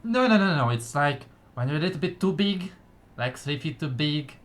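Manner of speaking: high, quick little gnome; chatty gnome explaining. Acted. Gnome explaining big folk.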